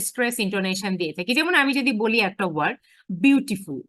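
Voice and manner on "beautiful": "বিউটিফুল" with a firm push on বিউ; stress on first syllable. Shown as a demonstration. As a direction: hit the opening বিউ of "বিউটিফুল", then fall away. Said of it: "তখন আমি কোথায় stress দিচ্ছি". ("বিউটিফুল"-এর বিউ-তে জোর)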